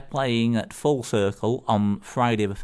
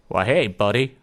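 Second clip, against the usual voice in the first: put-on louder, amateur go at a Yukon neighbour's accent; attempted Yukon accent; 5 dB louder than usual. Joke teller voices Bob's Yukon neighbour saying hello, amateur accent. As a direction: have a rough go at a Yukon accent. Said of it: "I'll have a go anyway".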